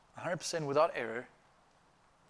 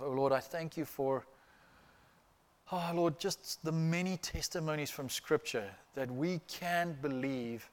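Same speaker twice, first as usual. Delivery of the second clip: earnest closing prayer to the Lord; pastor's prayer. Acted. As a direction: pray reverently over the congregation. Closing prayer after the sermon.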